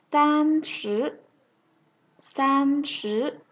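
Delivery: clear, deliberate number drill, each read twice; slow drill reading. Shown as a demonstration. Teacher leading students in a slow number drill. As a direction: lead the class through the drill slowly. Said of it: "Chúng ta cùng đọc lại".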